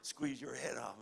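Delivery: playful low grumbling menace; mock menacing threat. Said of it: "You, you just go".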